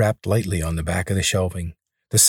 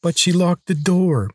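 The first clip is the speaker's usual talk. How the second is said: higher, slow whiny protest; whining boy; 9 semitones higher than usual. Acted. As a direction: drag it out like a sulky kid. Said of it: "Billy whined".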